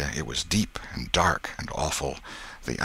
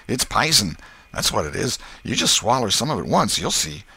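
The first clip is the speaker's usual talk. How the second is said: put-on boy warning with raised pitch; Tom's know-it-all voice; 5 semitones higher, 3 dB louder than usual. Tom warns Huck of poison, knowing boy voice. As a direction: warn your pal like you know everything.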